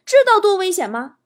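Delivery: acted father laying down a warning; a hint of parental sternness, emphatic; stern dad. Father sternly scolding his daughter.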